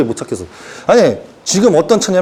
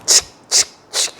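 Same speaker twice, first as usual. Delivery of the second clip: whispered spraying sound; soft unvoiced spray hiss; spray bottle noise; 4 dB quieter than usual. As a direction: mimic misting the flowers. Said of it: "이러고 있어".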